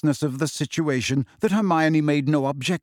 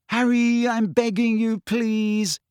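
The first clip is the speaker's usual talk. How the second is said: desperately; 9 semitones higher, slower than usual. A narrator's reading. Hermione pleading with Harry not to rush off, desperate. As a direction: beg him, voice pitched up in desperation. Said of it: "said Hermione desperately".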